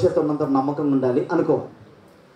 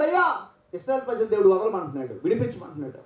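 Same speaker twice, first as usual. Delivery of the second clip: starts high and excited, then drops to a dismissive Pharaoh; Aaron speaking to Pharaoh; 5 semitones higher, 4 dB quieter, faster than usual. Retold or imitated. Preacher acting Aaron before Pharaoh, high then dropping. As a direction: act out the court exchange quickly. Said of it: "అహరోను ఇప్పుడు మాట్లాడుతున్నాడు".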